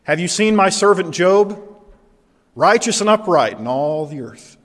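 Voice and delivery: proud, lifted boast about a favorite; proud God. Acted. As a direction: present him proudly to an audience. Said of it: "Very different tone from chapter one".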